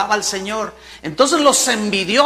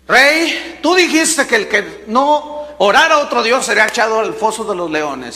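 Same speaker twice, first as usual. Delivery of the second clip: eager accusers; 3 semitones higher, 6 dB louder than usual. Acted. Spies tattling to the king, raised and eager.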